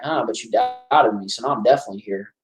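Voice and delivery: Candyman impression. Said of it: "That's a good impression".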